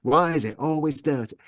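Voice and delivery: lightly voiced fussy mother complaining about the kitchen; a touch of the nagging northern mum; Gavin's mother. Narrator at home in the mother's voice, mild grumble. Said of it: "walk around the house going".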